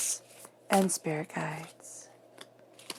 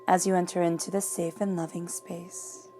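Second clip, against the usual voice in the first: calm, even meditation voice; guided meditation. Acted. Tarot reader guiding viewers into calm before reading, meditation voice. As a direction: ease the listener into a safe calm space.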